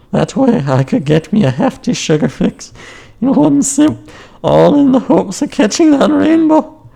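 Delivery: put-on high, loud, bouncy Irish accent. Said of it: "I hope you enjoyed that Irish accent".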